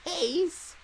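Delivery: put-on very slow creaky old voice; grumpy old man. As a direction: plead slowly like an old man. Old woman voice in dub.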